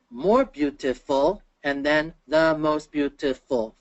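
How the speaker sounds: teacher's drawn-out, counted-out "beautiful"; syllable by syllable. Shown as a demonstration. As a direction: sound out each syllable of "beautiful" slowly. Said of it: "Three syllables".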